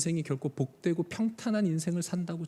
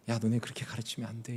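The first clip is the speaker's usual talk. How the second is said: soft, mild telling-off; mock gentle scolding; 6 semitones lower, 7 dB quieter than usual. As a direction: scold the Pharisees sweetly and softly. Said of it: "착하게". (바리새인들에게 부드럽게 타이르는 말투)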